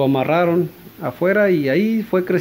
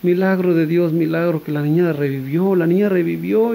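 joyful crying out; 3 semitones higher than usual. Retold or imitated. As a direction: shout the miracle in tearful joy. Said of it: "lloraba y lloraba de felicidad".

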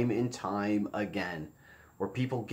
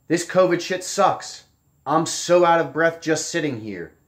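higher, louder, slow mock whine; mocking his post; 5 semitones higher, 6 dB louder than usual. Vlogger mocking the dead man's post, slow whiny voice. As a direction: read his complaint back as a hammed-up whine. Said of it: "He's literally saying this".

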